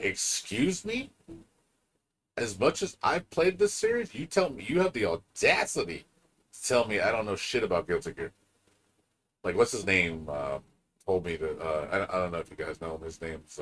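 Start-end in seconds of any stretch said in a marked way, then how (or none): 0.0-8.3 indignant disbelief. Retold or imitated. Answering the pro who said he knows nothing, high indignant scoff. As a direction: scoff at the insult, pitched up. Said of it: "I'm like".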